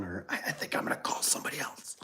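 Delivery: near-whispered, backing away; trailing-off whisper. Retold or imitated. Caller backing out of the phone call, hushed. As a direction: drop to an awkward hush.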